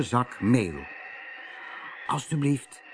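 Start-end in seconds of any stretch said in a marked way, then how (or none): 2.1-2.8 "Alsjeblieft" much softer, hushed; whisper. A narrator's reading. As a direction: secretly hand over the meal. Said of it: "fluisterde hij".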